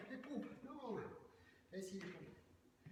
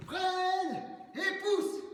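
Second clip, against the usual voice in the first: shouted cue; 2 semitones higher, much slower than usual. Shown as a demonstration.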